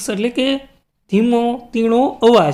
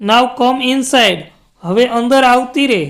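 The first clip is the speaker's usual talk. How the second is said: mother calling out; 2 semitones higher than usual. Acted. Mother calls Reshma in from the balcony, lightly raised call. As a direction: call her name out like a mum at the balcony. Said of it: "shouted her mother".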